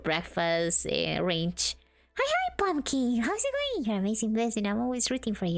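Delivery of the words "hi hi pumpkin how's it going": much higher, squeaky sing-song hello; cutesy greeting. Acted. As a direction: chirp the hello like a cartoon. Greeting chat in cute voice.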